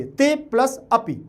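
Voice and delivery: ते प्लस अपि read slowly as separate words; ते अपि unjoined, each word spoken fully. Shown as a demonstration. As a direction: say ते अपि apart, vowels kept distinct. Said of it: "आप अभी पढ़ेंगे तो ते प्लस अपि पढ़ेंगे".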